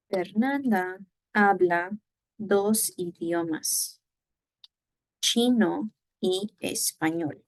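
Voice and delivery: slow, clear teacher read for repeating; careful classroom model reading; slow model sentence. Shown as a demonstration. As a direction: read it slowly so they can follow. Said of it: "repite conmigo, repeat after me".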